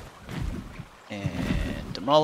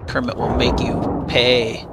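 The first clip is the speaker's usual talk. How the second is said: mock battle threat; 7 dB louder than usual. Threatening enemies in game.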